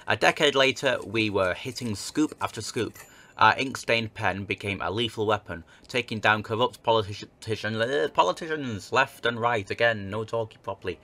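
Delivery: measured letter read-aloud; narrating an old newspaper tale; story narration. Acted. Reads game letter aloud.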